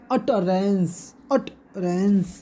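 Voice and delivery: utterance, slow, first syllable stressed; "utterance" drawn out in two pieces for a class. Shown as a demonstration. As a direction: split "utterance" after a stressed UTT. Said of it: "stressed करके बोलेंगे".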